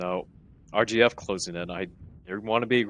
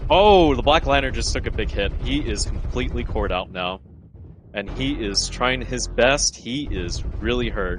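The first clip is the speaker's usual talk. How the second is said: esports caster. Real, not acted. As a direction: call the big hit, then let it settle. Live match play-by-play.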